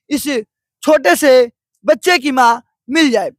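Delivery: dramatic TV reporter read, rising to pity; news report narration. Acted. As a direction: tell it like a heartfelt field report.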